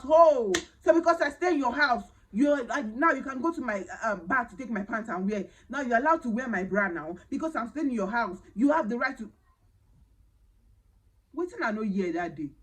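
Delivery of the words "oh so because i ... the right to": loud, higher mocking indignation; sarcastic retort. The wife mocking the maid's entitlement, loud and sarcastic. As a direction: scoff at the absurd logic out loud.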